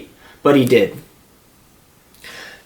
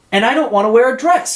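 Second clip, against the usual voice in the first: sobbing; 8 semitones higher, faster than usual. A narrator's reading. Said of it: "sobbed Nate".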